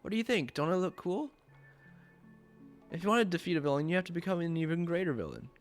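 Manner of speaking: strut like a cartoon supervillain; hammy villain announcement. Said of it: "Villain bird".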